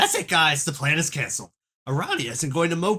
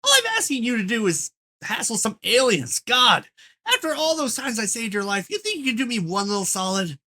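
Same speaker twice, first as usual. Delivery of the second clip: angry yelling; 5 semitones higher than usual. Acted. Troll character yelling in memo.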